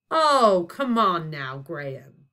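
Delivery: loud then dropping, stern; stern boom. Acted. Zeus to the headmaster, booming sternly. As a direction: reprimand him heartily. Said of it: "boomed Zeus Brad sternly".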